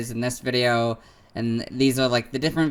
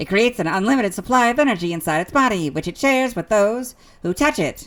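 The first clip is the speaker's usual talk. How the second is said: high, pitched-up voice like a handheld device; 8 semitones higher, 3 dB louder than usual. Reading Victini's entries in a voice copying Ash's Pokédex. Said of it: "I'll use a voice that replicates Ash's Pokedex".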